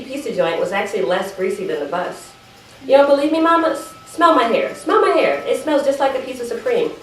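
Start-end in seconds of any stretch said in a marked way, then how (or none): 2.8-6.9 raised, insistent pleading; mock-indignant daughter insisting. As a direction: push her to smell your hair, a little higher. Insisting to Mama, smell hair.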